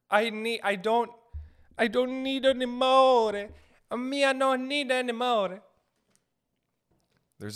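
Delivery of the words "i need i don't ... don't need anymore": mock exasperated son. Son refusing his Italian mother's offers, hammed-up high whine. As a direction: plead high, stretching the last word. Acted plea to pushy mother.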